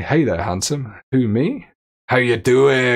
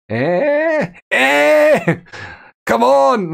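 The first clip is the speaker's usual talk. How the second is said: pestering character; 13 semitones higher, much slower than usual. Acted. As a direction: needle her for an answer in a high put-on voice.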